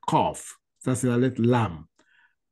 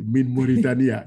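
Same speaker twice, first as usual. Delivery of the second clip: put-on Arabic accent. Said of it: "Il a dit".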